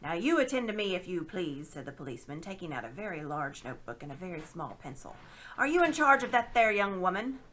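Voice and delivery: loud, pompous questioning; officious constable. Acted. Policeman questions Uncle Andrew, pompous and loud. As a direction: take notes importantly.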